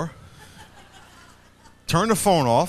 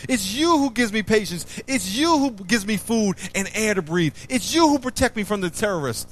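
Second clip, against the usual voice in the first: raised, fervent voice of a praying believer; mock prayer of thanks; 5 semitones higher than usual. Shown as a demonstration. Preacher models a personal prayer for the congregation, fervent and raised. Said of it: "Put your words in the verse".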